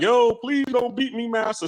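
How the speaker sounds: high pleading voice, pitched well up; imitating a frightened man begging his master; pleading slave voice. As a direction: beg the master, voice jumping high. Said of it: "And he's all like".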